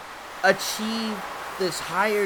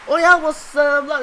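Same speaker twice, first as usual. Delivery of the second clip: put-on loud, higher gibberish in an Asian parent accent; fake-talk like an angry fob parent; mock fob accent; 9 semitones higher, 7 dB louder than usual. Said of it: "pretending to be talking".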